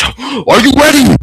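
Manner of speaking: drawn-out showman call; teasing shout. Acted. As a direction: hype the crowd before the reveal. Dramatic buildup shouted.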